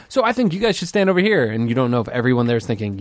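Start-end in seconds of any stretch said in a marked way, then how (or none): 0.1-1.5 high, tentative director voice; unsure director. Retold or imitated. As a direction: suggest it meekly, hoping nobody objects. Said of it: "you're like".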